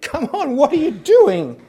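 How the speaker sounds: a laughing, high-pitched "come on"; mock exasperation, laughing. Disciples angrily wake sleeping Jesus.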